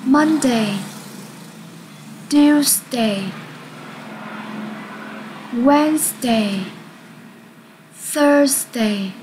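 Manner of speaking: each day read as a separate model word; model word list. Shown as a demonstration. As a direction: read each day clearly, then pause for repeating. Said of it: "Các em hãy cùng nhau đọc cho cô nhé". (đọc mẫu từng thứ cho học sinh)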